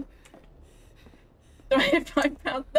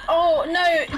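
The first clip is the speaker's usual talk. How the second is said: louder, higher cry; alarmed shout; 4 semitones higher, 4 dB louder than usual. Real, not acted. Streamer crying out at another donation, alarmed. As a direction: protest the donation out loud.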